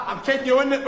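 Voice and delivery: laughs through the words, fast; giggling while owning up to the prank; laughing. Real, not acted.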